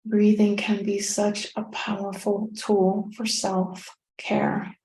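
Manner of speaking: calm meditation guide with long pauses; unhurried, guiding the listener through each breath; guided meditation. Real, not acted.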